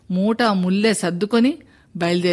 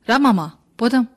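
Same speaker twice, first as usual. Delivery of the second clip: loud call; 4 semitones higher, 4 dB louder than usual. Acted. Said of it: "అని అరచినట్టు పిలిచాడు".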